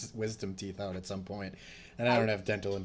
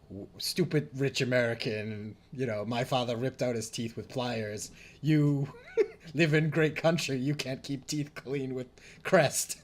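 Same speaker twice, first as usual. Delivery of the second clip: higher, scolding mock-Japanese accent; indignant Japanese-dentist accent, building louder; imitated Japanese dentist; 4 semitones higher, 4 dB louder than usual. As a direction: berate the patient in a put-on Japanese accent. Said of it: "in terms of the Japanese dentist".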